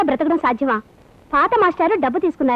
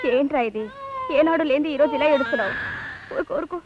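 soothing; 6 dB quieter than usual. Acted. Mother hushing her crying baby.

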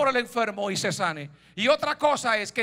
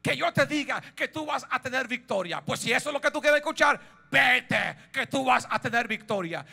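Micaías, sarcastic; 2 semitones higher than usual. Acted. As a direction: humour the king with false approval. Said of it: "Así creo yo que le dijo Micaías". (sarcasmo de falsa aprobación)

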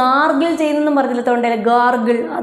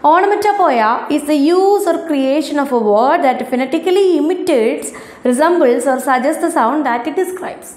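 slow, careful textbook reading; reading aloud; much slower than usual. Acted. Teacher reading the excerpt to her ninth-graders, slow and careful. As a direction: spell each English word out slowly for the class.

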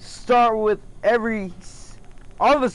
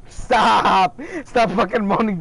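annoyed stop; 3 semitones higher, slower than usual. Real, not acted. Scolding a friend on call.

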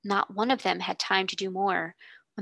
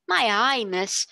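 amazed exclamation; 3 semitones higher, 5 dB louder, slower than usual. A narrator's reading. Servant girl exclaiming at the feast table. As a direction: blurt it out, dazzled. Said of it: "ejaculated Becky".

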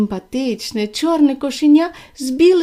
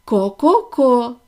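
slow ko-ko-ko clucking; a hen's slow clucks; slower than usual. Acted. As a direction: cluck it out slowly like a hen. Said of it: "закуткудакали кури".

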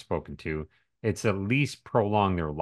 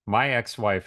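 ex in ex-wife leaned on a little; stress on EX. Real, not acted. Talking about the doctor ex-wife, stress on ex. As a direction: hit the ex in ex-wife. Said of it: "I'm gonna emphasize the word ex".

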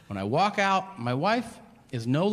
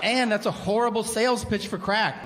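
incredulous; 6 semitones higher than usual. Retold or imitated. Disbelief at stoned driver.

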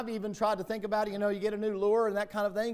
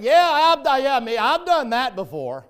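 loud, high "Yeah, me"; Joe confessing loudly; 5 semitones higher, 11 dB louder than usual. Retold or imitated. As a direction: call out an eager confession. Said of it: "back and".

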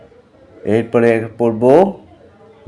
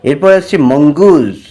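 put-on teacher reading vocabulary to children; spelling lesson for kids.

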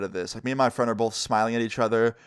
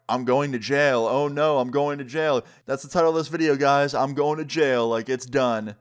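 joking mock dismay; 2 semitones higher than usual. Skater joking back at the man threatening cops, mock dismay. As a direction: play up a fake "oh no". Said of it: "after I kinda joke about it".

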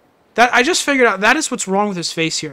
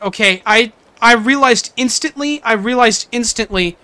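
insistent defense; 5 dB louder than usual. Real, not acted. Defending self to chat.

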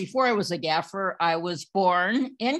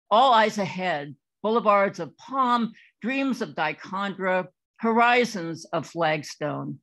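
measured poetry recital, each phrase launched then falling away; deliberate open-mic poem delivery; poem reading. Acted. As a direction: read it as verse, pausing between images. Reads her poem aloud.

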